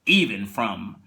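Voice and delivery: slow, measured narrator with hushed turns; lightly done Twilight Zone narrator; Rod Serling narration. Retold or imitated. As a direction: intone it like a TV host closing the episode. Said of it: "you hear Rod Serling, he says".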